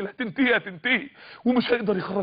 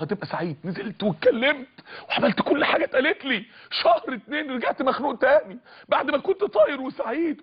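ordinary delivery

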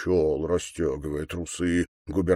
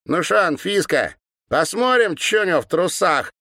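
put-on high, louder girlish sneer; mocking girl; 10 semitones higher, 4 dB louder than usual. A narrator's reading. Girl poking the governor with a stick, high mocking sneer. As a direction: taunt him like a spiteful schoolgirl. Girl addresses her sister.

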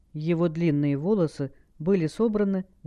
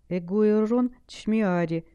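trembling voice; 4 semitones higher, slower than usual. Acted. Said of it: "дрожащим голосом ответила Хел".

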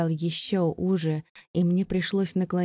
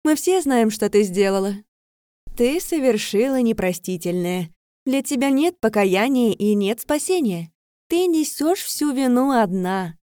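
louder, higher pronouncement of guilt; condemning; 4 semitones higher, 6 dB louder than usual. Acted. Vika condemning Leira for the unforgivable, loud and harsh. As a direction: pass sentence on her, cold and final.

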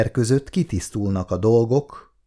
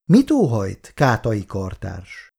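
cool, distant question, slowing on the name; cold; slower than usual. Acted. Irén asks the intruding colleague, coldly. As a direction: keep him at arm's length. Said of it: "kérdezte hidegen Irén".

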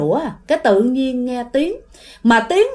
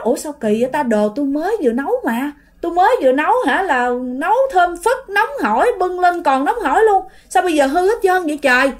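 higher-pitched puzzled protest; acted bewildered exclaiming; baffled aunt; 5 semitones higher than usual. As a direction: insist in disbelief, mystified. Aunt baffled by spoiled food.

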